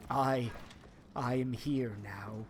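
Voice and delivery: hushed whisper. Retold or imitated. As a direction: breathe it out unvoiced. Quoting Space Marine line.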